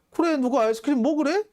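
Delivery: put-on high-pitched childish comeback; mock bratty culprit. Culprit to the ice-cream victim, high-pitched bratty retort. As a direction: throw the blame back in a high kid's voice. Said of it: "라고 했더니 가해자가".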